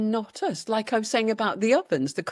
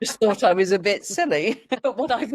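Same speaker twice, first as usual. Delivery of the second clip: laughing; 3 dB louder than usual. Real, not acted. Laughing at her own remark.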